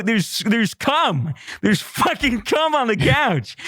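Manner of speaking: high, insistent urgent voice. Retold or imitated. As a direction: make him see it, urgently. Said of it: "I go".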